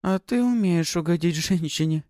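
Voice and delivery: giggling. Acted. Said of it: "хихикнула Пафи".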